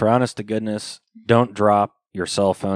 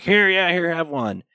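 high voice; 9 semitones higher than usual. Retold or imitated. Retold offer, high voice.

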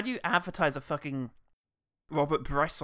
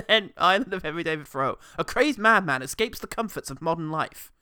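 put-on booming kids show opener; 6 dB louder than usual. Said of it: "parody trailer voiceover".

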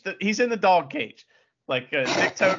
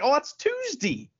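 high-pitched local "Tuesday" ending in "dee"; mock old Ohioan pronunciation; imitated Ohio accent; 11 semitones higher than usual. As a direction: say "Tuesday" as a folksy Ohioan would, lightly. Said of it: "what everybody says over here".

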